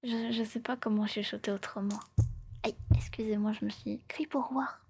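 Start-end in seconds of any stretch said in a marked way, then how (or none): 0.0-2.0 hushed storyteller's whisper. Real, not acted. Streamer explaining her odd voice to viewers, whispering. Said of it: "là, je chuchote".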